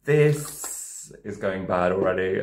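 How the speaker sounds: slow, slightly slurred; tipsy. Real, not acted. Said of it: "Maybe I drunk too much already".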